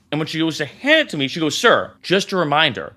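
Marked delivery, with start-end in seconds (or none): 1.5-2.9 slow, low, deliberate warning, a touch of mock intensity; intense stern reminder. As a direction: lay down the rule slowly and heavily, half imitating her. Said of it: "she said it with that level of intensity".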